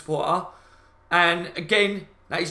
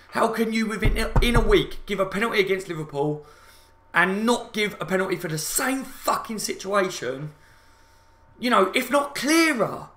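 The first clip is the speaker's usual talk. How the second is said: angry rant; 3 semitones higher than usual. Real, not acted. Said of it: "So angry".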